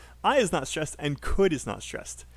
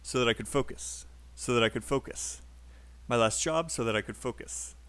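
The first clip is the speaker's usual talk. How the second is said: lower, "so that I could" squished into FOCUS; fast native rhythm; 4 semitones lower than usual. Shown as a demonstration. Teacher explaining why natives sound fast, squished connected rhythm. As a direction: rush the small words, land on "focus". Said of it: "It's fast because that's how a native speaker would say it".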